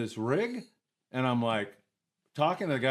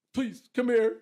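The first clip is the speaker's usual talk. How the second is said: high-pitched imitated plea; pleading mock yell; 11 semitones higher, 3 dB louder than usual. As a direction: call out for help, half-acted. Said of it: "And he yells at me".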